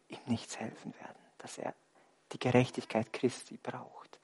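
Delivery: hushed whisper, almost no voice. Real, not acted. Preacher whispering Bartimäus's realisation to the church. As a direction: lean in and whisper it to the congregation.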